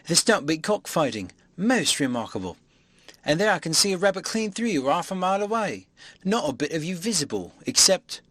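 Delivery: a tramp gawping in disbelief; amazed tramp. Acted. Marvel marvelling at invisible man.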